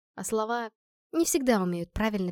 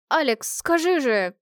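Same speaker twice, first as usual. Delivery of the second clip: slow, louder plea; pleading; 4 semitones higher, 5 dB louder, slower than usual. Acted. Girl begging Alex to explain, slow loud plea. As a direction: drag out the plea for help. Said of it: "взмолилась".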